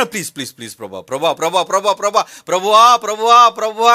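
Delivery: mock pleading, building from muttered to loud cries; imitated tearful begging. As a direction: beg over and over, swelling to a wail. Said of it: "కన్నీటితో మోకాళ్ళు చెప్పలు అరిగిపోయినట్టుగా నువ్వు అడుగుతున్నా".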